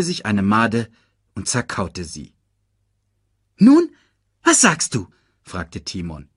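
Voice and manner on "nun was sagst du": high, quick cartoon meerkat; chirpy little sidekick voice. Timon asks.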